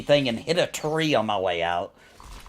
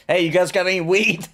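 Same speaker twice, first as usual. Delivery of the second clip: laughing; 5 semitones higher, 3 dB louder than usual. Retold or imitated. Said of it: "be like".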